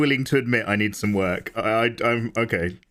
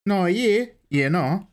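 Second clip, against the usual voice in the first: put-on Kiwi accent; 6 semitones higher, slower than usual. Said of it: "Are you an Australian or a Kiwi".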